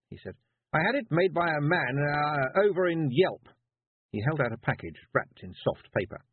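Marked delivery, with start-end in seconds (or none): 0.7-3.5 put-on higher, louder awkward young man; nervous boy. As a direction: stumble through it nervously.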